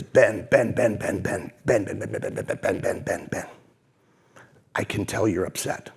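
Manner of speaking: soft, low, repeated Ben, Ben, slowing down; a lightly voiced wise boss soothing an angry young man; calm patient mentor. Mentor John calms angry Ben.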